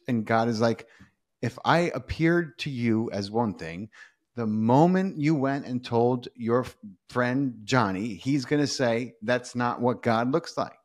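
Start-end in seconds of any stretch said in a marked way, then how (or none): 1.4-10.8 slow, measured delivery in own pitch; God patiently explaining. Retold or imitated. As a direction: spell it out slowly, word by word.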